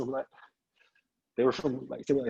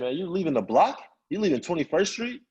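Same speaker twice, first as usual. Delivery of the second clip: incredulous friend; 5 semitones higher than usual. Retold or imitated. Friend challenges his leaving.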